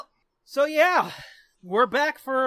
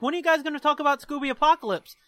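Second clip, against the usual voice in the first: nagging fans; 3 semitones higher, much faster than usual. Acted. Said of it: "People are still like".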